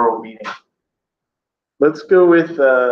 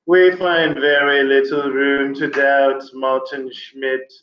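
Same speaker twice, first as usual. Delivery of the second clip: slow, drawn-out fake British accent; mock-scholarly British English, unhurried; much slower than usual. Shown as a demonstration. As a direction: put on an academic British accent, taking it slowly. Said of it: "you have to say it with a British accent".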